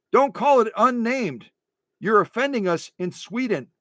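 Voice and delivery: playfully overwrought objection; mock emotional protest. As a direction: complain like a wounded viewer. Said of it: "I'm getting so emotional".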